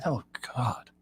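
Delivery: whispered, breathy groan of disgust. Real, not acted. Host reacting to bathroom talk, disgusted whisper. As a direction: whisper it like you can't believe it.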